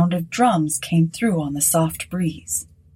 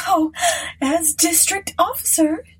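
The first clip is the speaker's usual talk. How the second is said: much higher, mock scolding; teasing hostess; 11 semitones higher than usual. Mrs Sinclair teasing the district officer, high mock scolding. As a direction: tease him lightly.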